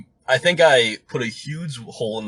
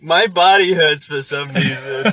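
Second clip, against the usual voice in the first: laughing confusion; 5 semitones higher, 5 dB louder, slower than usual. Retold or imitated. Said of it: "I'm like".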